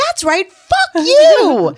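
high, loud mock shout; retold fuck-off. To the departing UPS guy, a high mock yell. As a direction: fling it after him like a curse. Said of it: "I go".

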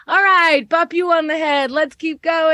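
chirpy upbeat cheerleader; perky voice. Retold or imitated. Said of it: "and she's like".

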